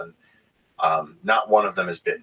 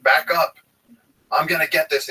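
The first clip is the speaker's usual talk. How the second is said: higher and louder, a swaggering hero voice; mock macho hero; 9 semitones higher, 4 dB louder than usual. Hiker showing off to his wife, mock macho shout. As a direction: puff up like a show-off tough guy. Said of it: "like some big hero".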